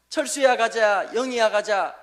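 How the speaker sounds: slow, sing-song first-grade reading; reading the primer aloud. Retold or imitated. Preacher recalls the primer, slow classroom reading. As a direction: read it like a child's first textbook. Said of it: "국어책 제일 처음에 나오는 장면".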